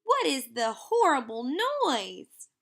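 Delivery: mild mock of a prim old aunt; mimicking a fussy aunt. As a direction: play the fussy aunt lightly. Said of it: "she will say".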